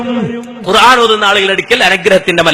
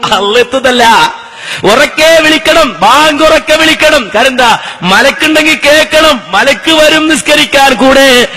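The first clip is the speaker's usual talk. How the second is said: full-force preaching. Acted. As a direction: proclaim it to a crowd, stretching the last words. (ഉച്ചത്തിൽ നീട്ടിയുള്ള മതപ്രഭാഷണ ശൈലി)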